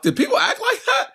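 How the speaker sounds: high, slowing squeal of laughter; laughing disbelief. Retold or imitated. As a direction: crack up while voicing a baffled viewer. Cracking up quoting a baffled viewer.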